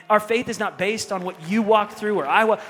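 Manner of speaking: 1 forceful preaching. Retold or imitated. Manny preaching faith at full force.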